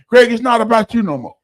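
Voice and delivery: preachy sponsor's rebuke; stern lecture. Retold or imitated. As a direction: lay down the law to him.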